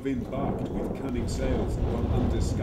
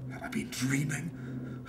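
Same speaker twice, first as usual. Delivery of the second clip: a slow, hushed whisper; whispered wonder; 3 semitones higher, 6 dB quieter than usual. Acted. The dreamer whispers to himself, bewildered. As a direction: ask it as if half asleep. Waking confused after whispering.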